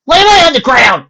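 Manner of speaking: high, loud bewilderment; startled confusion. Acted. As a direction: woke up confused.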